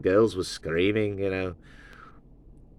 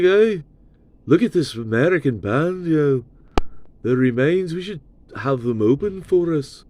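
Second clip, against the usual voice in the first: imitating a singer; 5 semitones higher than usual. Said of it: "and Paul were like".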